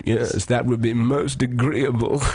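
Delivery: slow, mock-suave reply; really smooth. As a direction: imitate a smooth flirt, drawn out. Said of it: "He got really smooth".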